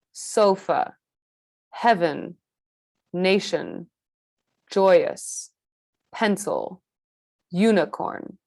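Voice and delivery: isolated words with the weak syllable reduced to "uh"; schwa examples. Shown as a demonstration. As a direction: model "sofa, heaven, nation, joyous, pencil, unicorn" one by one with a schwa. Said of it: "pronounced with this uh sound".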